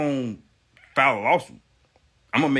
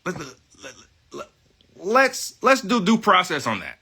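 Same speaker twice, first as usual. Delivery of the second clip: much higher, overly sweet reasonable voice; mock polite reply; 7 semitones higher, 4 dB louder than usual. Vlogger acts out answering disputes in a high mock-polite voice. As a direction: play the calm, smug peacemaker offering due process. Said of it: "I say".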